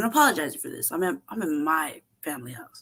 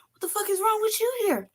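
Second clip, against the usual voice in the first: much higher, stunned question; shocked disbelief. Retold or imitated. Dad shocked at son's nails, high disbelief. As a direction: squeal it in disbelief.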